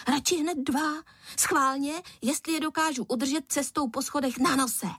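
put-on a playful boy teasing his father; cheeky boy. A narrator's reading. Boy's voice in story. (drze, vysokým dětským hlasem)

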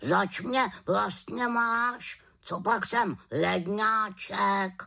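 high, slow huffy raven; indignant raven. Acted. Raven refuses the flight, huffy and slow. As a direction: raven protesting, offended.

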